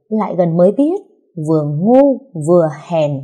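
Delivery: unhurried, teasing verse recital; lilting mocking chant of a poem; leisurely poem recital. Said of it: "đùng đỉnh đọc thơ".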